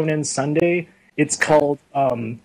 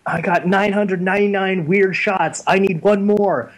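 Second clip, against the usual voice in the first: higher, lightly voiced schoolgirl; retold girl's chatter, pitched up; imitated schoolgirl; 5 semitones higher than usual. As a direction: play an excited picture-snapping girl lightly. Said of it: "she's like".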